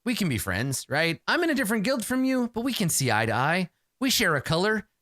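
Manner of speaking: a hint of a pleading social climber; imitating a guild snob. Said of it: "be like".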